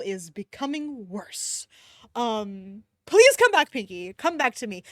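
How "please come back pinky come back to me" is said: loud, high begging; mock plea. Reader begging a dead character to return. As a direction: beg her to come back.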